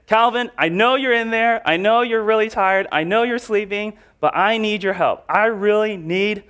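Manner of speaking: a hungry friend begging his neighbor for bread; pleading friend. Pretend. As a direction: plead through the door, insistent. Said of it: "And he said".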